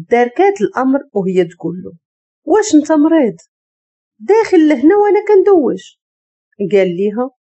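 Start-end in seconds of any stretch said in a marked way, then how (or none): 2.4-6.0 high, louder indignant cry; outraged. Acted. Woman caught showering yells at Jad, outraged. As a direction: scold him, shocked and offended.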